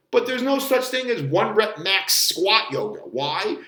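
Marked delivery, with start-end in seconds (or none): none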